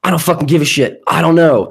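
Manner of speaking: mildly fed up, replaying your own reply; irritated. Man retelling his reply to her texts, irritated. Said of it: "I was really irritated".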